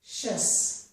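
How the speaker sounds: "shus" said unvoiced, sh then us; teacher isolating the sound "shus"; shus ending sound. Shown as a demonstration. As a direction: model "shus" crisply as one syllable. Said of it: "So the ending all sounds like".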